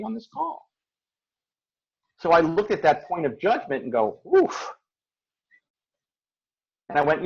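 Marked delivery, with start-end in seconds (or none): 4.4-4.7 oof. Retold or imitated. Reacting to her own judgment.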